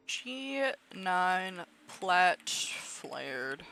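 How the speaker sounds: slow unvoiced whisper to herself; slow murmured whisper. Real, not acted. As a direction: breathe it out under your breath. Whispered to self, slowed.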